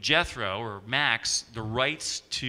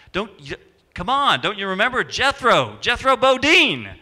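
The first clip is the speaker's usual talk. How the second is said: insistent celebrity; 10 semitones higher, 9 dB louder than usual. Retold or imitated. Max Baer insisting he should be recognized, loud and high. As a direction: call it out like a miffed TV star.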